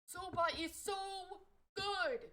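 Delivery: high and loud, bursting with delight; squealing over noodles; excited gush. Real, not acted. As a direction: rave about it like a food fan. Gushing about favorite food.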